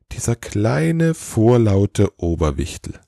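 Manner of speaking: slow, drawn-out exasperation; exasperated grumble. Acted. Santa grumbling to himself about his chief elf, exasperated. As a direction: stretch each word in mild annoyance.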